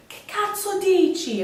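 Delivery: high, slow, snippy Italian retort; mock the stranger snapping at you in Italian; angry Italian woman. Vlogger imitates the stranger snapping at her in Italian. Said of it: "she's like".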